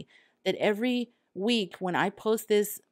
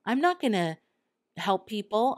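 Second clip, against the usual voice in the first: retold anger; 4 semitones higher than usual. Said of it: "It was like an anger".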